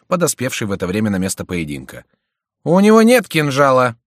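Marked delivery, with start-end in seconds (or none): 2.6-4.0 loud, high urgent protest; shouted warning. A narrator's reading. Шико warns that Келюс has no dagger, shouting. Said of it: "крикнул Шико".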